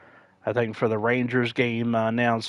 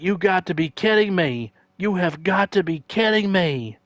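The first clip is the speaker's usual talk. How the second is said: much higher, exasperated repeat; announcer disbelief; 8 semitones higher, 3 dB louder than usual. Retold or imitated. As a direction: plead in disbelief at the call. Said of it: "And he's like".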